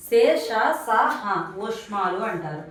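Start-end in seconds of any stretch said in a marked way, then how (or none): 0.1-1.5 శే, ష, స, హ slowly, with air pushed out; blown-out sibilants. Shown as a demonstration. Teacher revising breath-made letters, slow airy శే, ష, స, హ. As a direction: stretch శే, ష, స, హ, blowing through each. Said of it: "గాలిని బయటకు ఊదుతూ పలికే".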